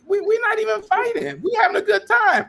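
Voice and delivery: squeaky high-pitched mock innocence; retold protest. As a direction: plead it in a comic falsetto. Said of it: "I was like".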